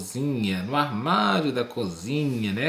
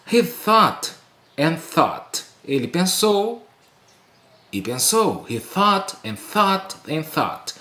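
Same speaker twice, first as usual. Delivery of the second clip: higher, lingering on each thought; drawn-out storytelling emphasis; 4 semitones higher than usual. Shown as a demonstration. Teacher reads to students, lingering on thought. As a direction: make the long pondering felt through repetition. Dwelling on repeated thinking.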